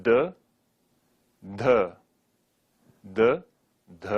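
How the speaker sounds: firm repeated dental d; touch the teeth with each d. Shown as a demonstration.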